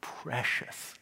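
soft, breathy dying cry of Precious; fading Gollum wail. Acted. Gollum falling into the chasm, last faint wail. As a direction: let it vanish as he falls. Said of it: "came his last wail".

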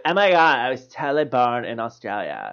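gushing mock girly voice; hammed-up airhead girl; imitated bimbo girl. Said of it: "how all girls talk in your head".

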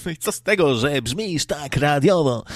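a touch of a fake radio announcer; mock radio voice. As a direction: send up a polished radio voice. Mocking radio voice.

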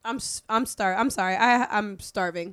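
words around a mouthful; mouth full. Real, not acted. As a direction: still chewing while talking. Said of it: "While you're eating".

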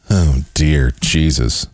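usual speaking voice

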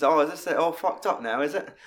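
lightly imitated cockney, pitched a bit up; mock cockney accent. Film fan imitating the unmasked hangman, mock cockney accent. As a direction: put on a quick hint of cockney. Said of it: "he's just a fucking cockney".

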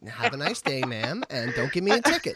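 a hint of a sassy white girl voice; lightly voiced entitled white girl. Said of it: "you gave me a white girl voice".

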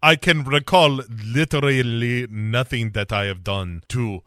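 exasperated mock Latin accent; put-on Latin accent, aggrieved. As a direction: plead your case in a comic Latin accent. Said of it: "my sexy Latin accent".

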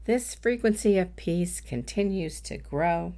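measured meditation voice with long pauses; guided meditation. Acted. Coach leading listeners in a world peace meditation, unhurried guided-meditation delivery. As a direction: guide listeners gently, phrase by phrase, leaving room to breathe.

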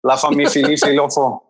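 syllables doubled with f; "La Fa Mifi Lifi Lofo" spelled with f syllables; made-up code language. Shown as a demonstration. Showing the aunts' secret code, a playful "La Fa Mifi Lifi Lofo". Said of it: "They started inventing".

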